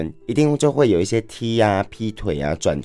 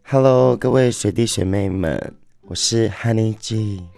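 smoky voice. Real, not acted. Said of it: "有点烟嗓音的感觉".

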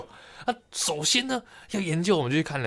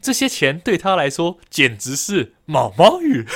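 slow, louder, emphatic example sentence; reading an example; 2 semitones higher, 5 dB louder, slower than usual. Shown as a demonstration. Podcaster reads an amusing dictionary example to co-host, emphatic slow recitation. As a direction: declaim it slowly, building to the funny word. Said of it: "他有个例句是这样的啊".

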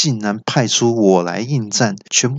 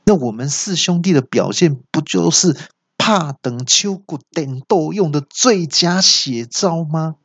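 put-on sly demon lecturing a little girl; villain voice; 4 semitones higher than usual. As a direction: preach at the kid like a smug ogre. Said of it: "那恶怪就说".

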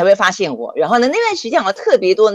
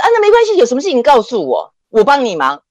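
higher, eager offer of help; eager helpful professor; 5 semitones higher than usual. Retold or imitated. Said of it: "他说". (热心教授的语气)

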